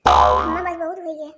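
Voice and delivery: loud, slow, exasperated; fed up. Acted. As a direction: slam the door on her teasing. Daughter-in-law fed up, quarrel. (झुंझलाकर ऊँची आवाज़ में)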